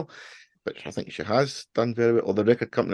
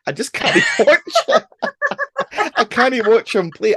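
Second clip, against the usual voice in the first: laughing exasperation, louder and higher; exasperated laugh; 14 semitones higher, 5 dB louder than usual. Real, not acted. Ranting about a bass player, exasperated laughing. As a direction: laugh it out, fed up. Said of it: "he just pisses me off".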